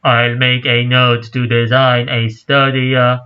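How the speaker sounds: lightly voiced robot professor; a hint of a robot voice. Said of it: "Do you like my robot voice?".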